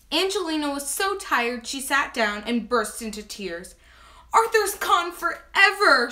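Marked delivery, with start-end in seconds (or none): 4.3-6.1 high, slow, mock-tearful lament; lightly acted sob, drawn out and loud; sobbed. A narrator's reading. Angelina mourning her butterfly, lightly acted sob. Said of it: "she sobbed".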